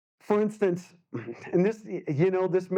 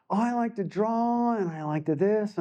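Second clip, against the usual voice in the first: put-on kid's voice; 4 semitones higher than usual. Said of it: "So, like what?".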